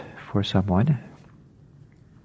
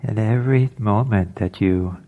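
unhurried meditation guidance with long pauses; guided meditation. Acted. Teacher settling listeners into an alert meditation posture, guided meditation. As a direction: ease them gently into stillness, phrase by phrase.

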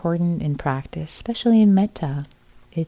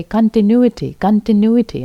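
put-on Bostonian accent, louder and higher; 5 semitones higher, 7 dB louder than usual. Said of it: "thick Bostonian accent".

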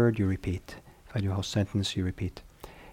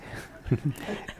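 breathy laugh; 7 semitones higher, 7 dB quieter than usual. Real, not acted. After chanting mix-up.

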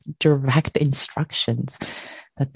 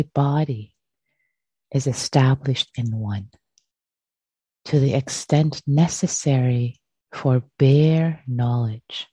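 measured recitation with long pauses between phrases; scripture reading. Acted. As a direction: read it out deliberately, phrase by phrase. Reads scripture aloud.

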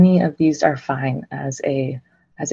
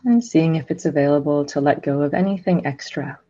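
unhurried meditation guidance with long silences; guided meditation. Real, not acted. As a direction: guide listeners gently into stillness, phrase by phrase.

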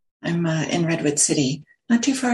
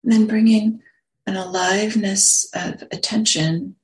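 unhurried meditation guidance, long silences between phrases; guided meditation; slower than usual. Real, not acted. Teacher settling a group into sitting posture, guided meditation. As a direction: guide them gently into the sit, phrase by phrase.

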